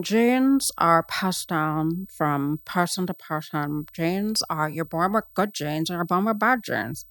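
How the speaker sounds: slowed, odd put-on voice mocking her; strange slow voice. Mocking Sydney Sweeney's odd slow way of talking. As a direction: drag each word out like a strange celebrity. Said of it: "she talks very strangely".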